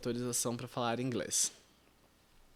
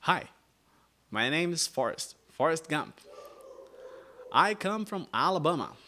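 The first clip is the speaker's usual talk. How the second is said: Forrest Gump Alabama accent; 5 semitones higher, 4 dB louder than usual. Shown as a demonstration. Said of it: "o sotaque do Alabama". (sotaque do Alabama de Forrest Gump)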